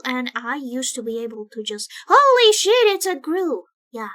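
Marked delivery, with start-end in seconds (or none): 2.1-3.6 louder, higher excited shout; surprised exclamation. Retold or imitated. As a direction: gasp out the discovery. Acted exclamation quote.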